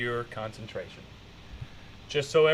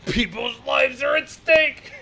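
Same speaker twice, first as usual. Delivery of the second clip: slow, higher, hammed-up line delivery; mock dramatic quote; 6 semitones higher, slower than usual. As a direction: drag it out like a bad action hero. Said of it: "That's pretty fucking funny".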